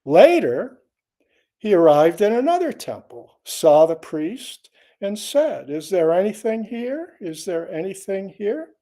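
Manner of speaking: measured, projected reading of a teaching tale; koan story narration. Acted. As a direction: read the old Zen story aloud, phrase by phrase. Reads a koan aloud.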